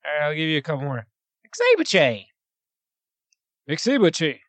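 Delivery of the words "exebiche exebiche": flat Exebiche again and again; deadpan voice. Shown as a demonstration. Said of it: "Give me one more".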